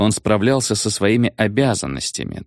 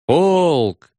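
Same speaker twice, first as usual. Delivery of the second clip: high, louder barked order; shouted command; 8 semitones higher, 3 dB louder than usual. A narrator's reading. Regimental commanders shouting to the parade, a high bark. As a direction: call out the regiment like an officer. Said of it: "выкрикнули четыре командира полка".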